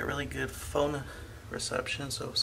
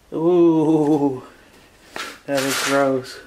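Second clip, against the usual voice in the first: loud; 16 dB louder, much slower than usual. Real, not acted. Disgusted at cockroach.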